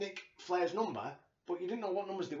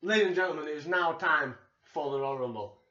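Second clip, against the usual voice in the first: lightly imitated ring announcer; a hint of the big ring announcer, louder; Howard Finkel; 2 semitones lower, 4 dB louder than usual. Podcast host briefly echoing the Rumble announcer, lightly announced. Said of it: "Howard Finkel to introduce the rules".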